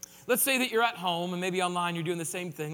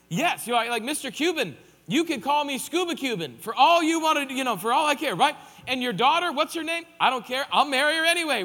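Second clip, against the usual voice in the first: eager yes-man; 3 semitones higher, 6 dB louder than usual. Retold or imitated. Eager listener agreeing to anything.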